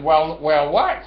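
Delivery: mocking the owner's "well", loud and slow; mocking retort. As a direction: throw his word back at him slowly.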